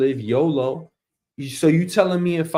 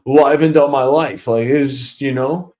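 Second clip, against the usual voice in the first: boss reminiscing; 4 semitones lower than usual. Retold or imitated. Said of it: "boss talking of kids".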